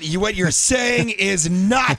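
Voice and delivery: high, loud, strained mock respectful plea; exaggerated polite plea to Michael Bay. Shown as a demonstration. To Michael Bay while he yells, high loud mock respectful plea. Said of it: "I'd have to say it like this".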